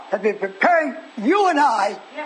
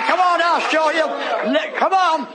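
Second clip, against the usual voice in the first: raised, excited beckoning; eager urging; 4 semitones higher than usual. Acted. Woman leading Jesus to the tomb, eager urging. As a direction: urge him along in a higher voice.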